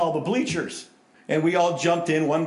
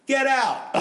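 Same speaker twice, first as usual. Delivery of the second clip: mock shout; 10 semitones higher, 5 dB louder than usual. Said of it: "He said".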